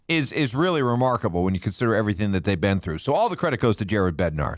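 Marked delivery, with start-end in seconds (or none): 3.0-4.6 dry, deadpan fake praise; sarcastic. Real, not acted. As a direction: say it straight-faced but mean the opposite. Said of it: "that's snark right there. That's sarcasm".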